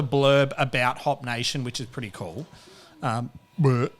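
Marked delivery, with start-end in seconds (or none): 3.6-3.9 small forced burp; weak burp. Real, not acted. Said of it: "That was a weak burp".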